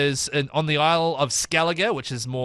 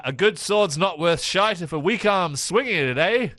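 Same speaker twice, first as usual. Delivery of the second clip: raised-pitch, slow island character voice; hearty seafaring islander; 4 semitones higher, slower than usual. Acted. Repeating the islander's line on request, slow raised voice. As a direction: draw out the seafarer's catchphrase, rising at the end. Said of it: "what was the sword swinging one".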